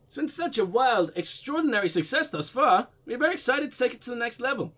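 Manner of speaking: put-on light blend of Russian and German accents. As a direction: voice the man with a slightly muddled Russian-German accent. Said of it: "weird blend of Russian and German".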